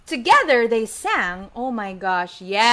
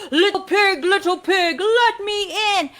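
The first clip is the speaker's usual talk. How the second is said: wolf's call; 6 semitones higher than usual. Acted. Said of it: "When I say".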